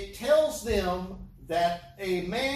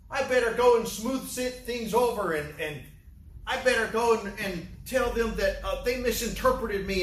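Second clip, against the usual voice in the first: mock panicking Jesus; 4 semitones higher than usual. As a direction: wring your hands over a blunder. Mocks a worried apologizing Jesus.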